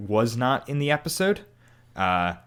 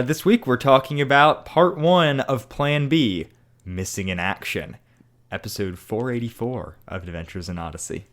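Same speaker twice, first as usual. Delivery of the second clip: sick, gravelly voice; rough voice from being sick. Real, not acted. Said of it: "As you can tell by my gravelly voice".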